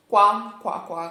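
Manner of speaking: loud "Qua" like a duck quack; playful duck sound. Shown as a demonstration. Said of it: "come fa l'anatra".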